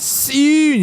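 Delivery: sudden high-pitched "soon"; high squeaky voice. Shown as a demonstration. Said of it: "You gotta do it in the Scouse accent".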